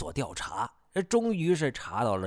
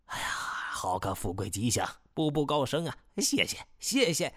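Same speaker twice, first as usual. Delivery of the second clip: soft start rising into high thanks; excited delight; 3 semitones higher, 3 dB quieter than usual. A narrator's reading. Chief receives a promotion blessing, excited delight. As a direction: savour it, then gush higher. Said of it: "包康情绪激动".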